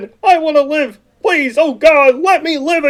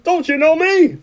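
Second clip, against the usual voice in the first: crying plea; 2 semitones higher than usual. Acted. George begging Mary, breaking down.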